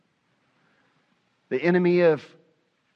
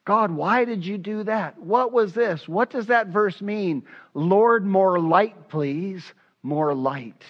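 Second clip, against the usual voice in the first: higher, urgent questions to God; frustrated pleading prayer; 5 semitones higher, slower than usual. Retold or imitated. Studying Bible, begging God for more light, higher. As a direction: press God for answers, rising. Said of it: "I'm not fully understanding".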